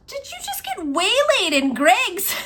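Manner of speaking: high, loud retold question breaking into laughter; amused incredulity. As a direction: voice climbs as the laugh takes over. Retold wife confronting her, laughing.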